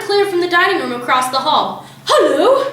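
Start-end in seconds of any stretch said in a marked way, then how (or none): 2.1-2.7 parrot hello. A narrator's reading. Parrot calls from dining room.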